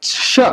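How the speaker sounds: श as a short "sha"; distinct "sh" in श; German CH sound. Shown as a demonstration. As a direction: say ch as श, not च. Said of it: "अब हम लोग क्या बोलेंगे".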